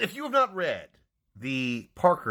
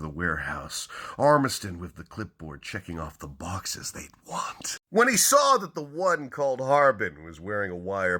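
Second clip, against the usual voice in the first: dramatic hardboiled crime reading; hammy stage actor. Acted. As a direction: punch each opening, then hush it. Reads crime novel openings dramatically.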